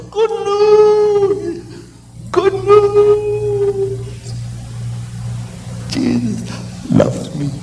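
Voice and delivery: high, far-off joyful call, fading at the end; Bernie calling out. Retold or imitated. Bernie running all over camp, calling out joyfully. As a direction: sing it out as he runs off across camp.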